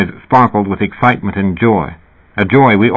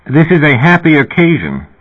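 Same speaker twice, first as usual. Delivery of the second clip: higher-pitched, lightly British man; slight British accent; 7 semitones higher, 3 dB louder than usual. A narrator's reading. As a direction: lift the voice, a hint of British English. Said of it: "voice with a slight British accent".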